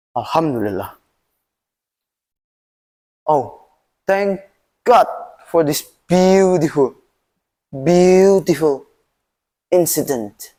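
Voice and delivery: a wise advisor calmly thanking God. Acted. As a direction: say it with calm gratitude. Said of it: "calm, and said".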